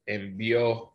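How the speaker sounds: Envió with the final O held longer; stressed lengthened O in Envió. Shown as a demonstration. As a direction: stretch the O at the end of Envió. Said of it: "I didn't hear that O at the end that long".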